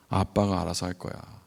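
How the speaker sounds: low, soft retold fatherly reply; calm reassurance. Dad answers his worried little son, calmly reassuring. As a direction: lightly play the unbothered dad, voice dropped.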